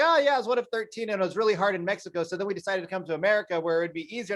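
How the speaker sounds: breezy, quick imitation of a casual retelling; casually rattled-off mock nonchalance; nonchalant. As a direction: toss it off fast, like it's nothing. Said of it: "he says it so nonchalantly".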